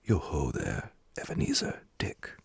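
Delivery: lightly voiced jolly, rich-voiced boss; jovial call. A narrator's reading. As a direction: call out with a touch of comfortable, fat joviality. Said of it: "called out in a comfortable, oily, rich, fat, jovial voice".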